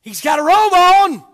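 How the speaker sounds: loud preached line; emphatic. Acted. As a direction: declare it firmly. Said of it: "repeated louder".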